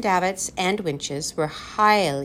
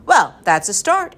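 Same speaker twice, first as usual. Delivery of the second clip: higher, louder cheering-on; encouraging; 5 semitones higher, 5 dB louder than usual. A narrator's reading. Professor reassures the children after a poor joke, encouraging. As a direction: buck them up after a weak joke. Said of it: "encouraged the professor".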